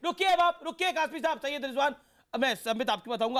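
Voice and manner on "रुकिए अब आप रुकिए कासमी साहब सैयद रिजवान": higher, urgent call to halt the debate; anchor calling stop. Real, not acted. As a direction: cut in firmly to stop the guest talking. Anchor cutting off panelist.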